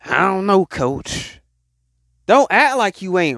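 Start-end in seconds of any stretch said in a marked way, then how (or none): 0.1-1.4 slow, stalling reluctance; hesitant doubter. Acted. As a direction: imitate someone unsure and hedging. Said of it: "some people just saying".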